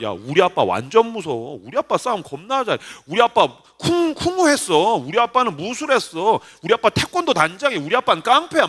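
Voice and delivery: lightly acted childish boasting; bragging little kid. Little boy boasting about his dad in a squabble, lightly mocked bragging. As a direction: imitate a kid trying to out-brag a rival. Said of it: "어린이 때도 나도 꼬맹이 때 서로 막 시비 붙으면".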